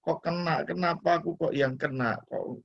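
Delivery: lightly voiced complaining to himself; mock grumbling. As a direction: grumble in a mild mock self-pity. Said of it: "Kalau mau ngomel".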